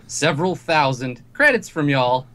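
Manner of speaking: corny cowboy voice. Acted. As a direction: play a hokey cowboy ad voice. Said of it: "this kinda corny sounding, like, cowboy voice comes on".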